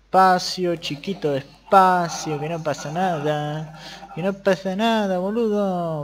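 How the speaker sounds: exaggerated fake Argentine accent, drawn-out and sing-song; mock the Argentine accent foreigners imagine; foreign stereotype of Argentine accent. Streamer mocking how foreigners hear Argentines, hammed-up fake Argentine accent. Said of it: "así supuestamente para los extranjeros hablan los argentinos".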